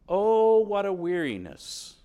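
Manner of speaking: hammed-up exasperated complaint; weary sneer. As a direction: moan it like a fed-up churchgoer. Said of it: "And you sneer at it".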